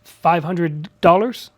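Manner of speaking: slow questioning repeat; "Five hundred dollars?" drawn out, rising at the end; incredulous mirror. Shown as a demonstration. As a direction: echo the price back, drawn out and rising. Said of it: "And that's what I do".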